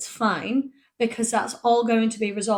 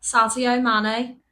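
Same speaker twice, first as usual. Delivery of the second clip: slow, tentative Scouse attempt; attempted Scouse accent; slower than usual. Shown as a demonstration. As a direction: have a careful go at Scouse. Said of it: "Say it in a Scouse accent".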